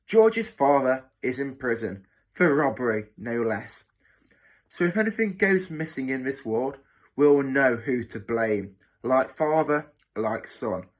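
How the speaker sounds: loud, emphatic matron's sneer; gloating matron. Acted. Matron shaming George before the ward, gloating. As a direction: announce the boy's shame to everyone.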